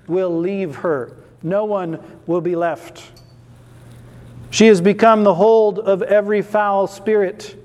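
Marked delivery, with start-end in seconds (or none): 4.5-7.6 loud, ringing proclamation; booming scripture reading. Real, not acted. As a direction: boom it out to the whole room.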